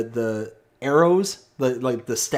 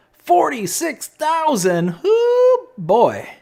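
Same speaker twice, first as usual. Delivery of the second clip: surprised; 7 dB louder, much slower than usual. Real, not acted. Sees huge stone storage number.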